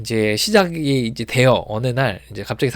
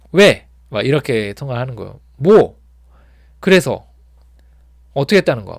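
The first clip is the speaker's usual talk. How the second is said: loud, curt, annoyed phone voice; irritated on the phone; 7 dB louder than usual. Retold or imitated. Coworker annoyed on the phone, loud curt questions. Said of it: "목소리가 이상해요".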